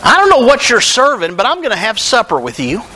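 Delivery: lightly voiced Jesus, calling Zacchaeus down; a hint of Jesus inviting himself to supper; voicing Jesus calling up. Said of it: "And he says".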